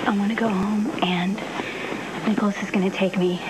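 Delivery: whisper. Acted. Sick Emily pleads quietly.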